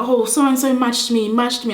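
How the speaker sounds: re-enacted tattling; imitated complaining. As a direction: act out telling on someone to teacher. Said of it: "complaining to the teacher".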